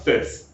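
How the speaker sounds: "face" with a short narrow vowel, like "fess"; "face" shortened towards "fess"; changed face vowel. Shown as a demonstration. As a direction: say "face" with hardly any glide. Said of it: "the sound in that word is changing".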